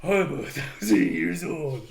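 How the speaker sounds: slow, mock-stunned movie hero. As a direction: imitate a badly acted stunned revelation, drawn out. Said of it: "he's so stunned".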